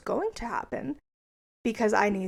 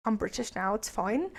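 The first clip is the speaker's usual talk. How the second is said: a botched attempt at a British accent; failed British accent. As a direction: try a British accent and miss. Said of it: "That was not British".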